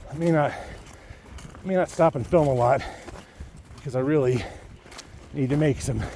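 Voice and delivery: out of breath from the climb; trudging through snow. Real, not acted. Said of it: "post holing again".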